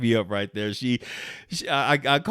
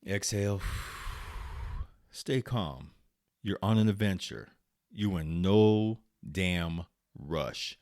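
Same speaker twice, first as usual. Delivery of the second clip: calming self-talk; 4 dB quieter than usual. Real, not acted. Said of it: "So I just laughed. I said".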